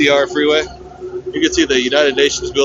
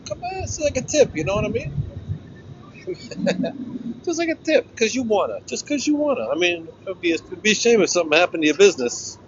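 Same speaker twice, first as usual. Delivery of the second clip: mock mobster shakedown; 4 semitones higher than usual. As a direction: sell the protection racket with a sly grin. Continued mobster protection racket bit.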